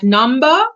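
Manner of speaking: "number" said without the final R; non-rhotic "number" with questioning lift; R left silent. Shown as a demonstration. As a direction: end "number" on an open vowel. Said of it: "do not say the R in car".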